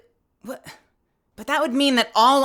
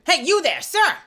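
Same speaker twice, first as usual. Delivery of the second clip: generic guard call; 5 semitones higher than usual. Acted. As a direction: call out like any guard on duty. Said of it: "Let's just try a generic guard".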